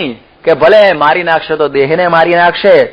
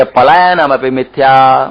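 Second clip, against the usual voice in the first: slow Sanskrit intoning; slower than usual. Retold or imitated. Fleeing monk justifying himself to villagers, slow intoning. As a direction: draw out પલાયનમ slowly like a verse. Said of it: "એ કે".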